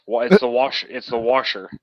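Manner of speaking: washer with a Texas twang; Texas accent on washer. Shown as a demonstration. Showing where the accent comes out, Texas washer. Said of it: "comes out when I say things like washer".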